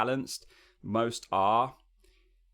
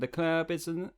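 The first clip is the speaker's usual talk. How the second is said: "the club" sung higher, pushed back in the throat; pharyngeal shift; 7 semitones higher, slower than usual. Shown as a demonstration. Coach imitates student's shifted sung tone. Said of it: "Immediately there's a shift from your talk".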